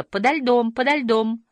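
high, ringing echoed call; held-up pitch, echo bouncing back. A narrator's reading. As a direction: repeat it evenly like an echo. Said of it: "эхо повторило".

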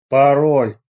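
slow, loud sepulchral voice; sepulchral call. A narrator's reading. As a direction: call out from the grave. Rat guard demanding password.

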